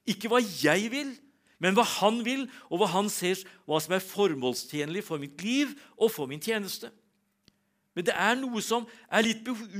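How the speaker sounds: preacher lifting his voice on growth in God's will; preaching. Acted. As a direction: drive the point home to the congregation. Preaching point at full force.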